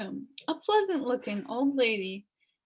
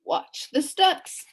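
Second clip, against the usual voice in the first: advised; 9 semitones higher, 5 dB louder, slower than usual. Acted. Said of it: "advised the policeman".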